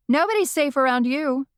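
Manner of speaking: a witch heckling from the crowd; heckling yell. A narrator's reading. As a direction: yell it up at the comedian. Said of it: "Rosalie yelled".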